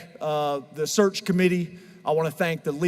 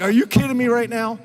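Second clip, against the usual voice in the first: mock disbelief, higher pitch; incredulous wife; 4 semitones higher, 4 dB louder than usual. Coach quoting his wife as he gets emotional over a commercial, lightly mock-incredulous. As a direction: imitate a wife's teasing incredulity. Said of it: "She's like".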